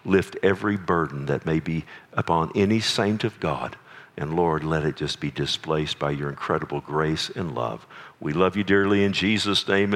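low, measured prayer voice; closing prayer. Real, not acted. Preacher closing a prayer for the church, prayerful. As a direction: pray it earnestly, pitched a little down.

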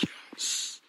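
high, loud cheer; excited yes. Retold or imitated. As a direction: cheer like the team just scored. Celebrating the song choice.

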